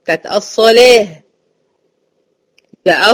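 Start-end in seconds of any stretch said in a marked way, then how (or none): 0.3-1.1 "الصلاة" with a thin "leh" ending; light laam. Shown as a demonstration. Teacher repeats the correction, "الصلاة" with light laam. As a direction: keep the laam thin after heavy saad in "الصلاة". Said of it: "لأن اللام مرققة".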